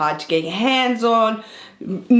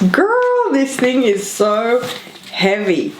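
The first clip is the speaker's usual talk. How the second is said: excited; 4 semitones higher than usual. Real, not acted. Reacting to the heavy hamper.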